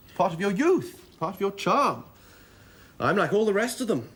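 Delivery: eager, charming protest; gallant reassurance. Acted. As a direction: reassure them with ardent admiration.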